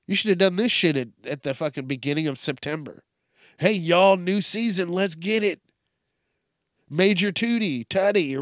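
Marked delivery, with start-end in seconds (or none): 3.6-8.3 higher, louder hype-man call; mock hype. Host imagines the team hyping its mascot, mock hype call. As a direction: pump up the crowd, tongue in cheek. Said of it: "imagined team hype announcement".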